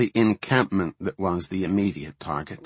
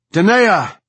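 high, full-force calling out; louder repeated shout; 11 semitones higher, 10 dB louder than usual. A narrator's reading. Commander straining to reach her second, shouting loudly. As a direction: shout the name so it carries. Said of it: "Her voice did not carry enough".

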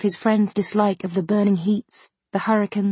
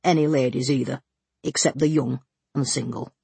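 suppressed titter; 6 semitones lower than usual. A narrator's reading. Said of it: "with difficulty suppressing a titter".

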